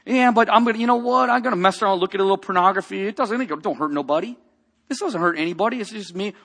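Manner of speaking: mock sinner excuse. Preacher mocking a believer excusing sin, hammed-up casual voice. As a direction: play a careless believer brushing it off.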